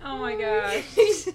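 put-on drawn-out valley girl gush. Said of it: "That's what you sound like".

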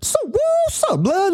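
very high, slow mock greeting to a buddy; a hammed-up high blood greeting; street greeting. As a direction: stretch it high and playful. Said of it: "or like".

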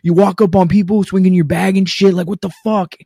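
high-pitched mock angry tirade; retold mad rant. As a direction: imitate an indignant guy telling you off. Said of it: "he gets mad at me".

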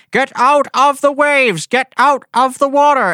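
high shouted call over the noise; yelling over helicopter. Retold or imitated. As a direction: yell it like a rescuer over rotors. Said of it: "That was a really good impression".

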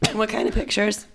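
hushed, breathy teasing question; whispered tease about the pictures. Real, not acted. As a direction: whisper it like a secret.

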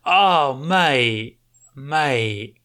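a lightly voiced Aussie bartender, weary and firm. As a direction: cut the drunk off kindly but flatly.

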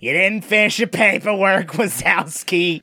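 slow drawn-out "Wazowski"; deadpan, dragging out "Wazowski"; Roz impression. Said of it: "Roz, everything she says".

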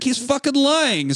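high, drawn-out accusation; slow, strained high mock yell; mock angry dad. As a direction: imitate an enraged father calling out a lie. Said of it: "so the dad's like".

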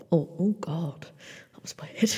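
awkward laughing whisper to herself; embarrassed whispered oh God; whispered reaction. Real, not acted. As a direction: hush it, caught off guard and amused. Reacting to own odd sound.

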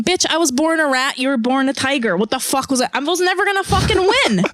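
high-pitched, worked-up protest; indignant rat. Acted. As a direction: argue the underdog's case, voice climbing high. Voicing the rat's defiant defense.

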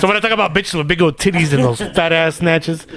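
lightly imitating a co-host's voice; casual impression of a friend talking. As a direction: do your buddy's voice, understated. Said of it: "Dirty does my voice".

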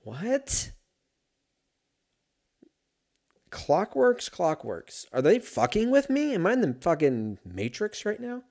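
high-pitched incredulous outburst; baffled disbelief. Real, not acted. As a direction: squeak it out, completely thrown. Baffled by a doubled word he reads.

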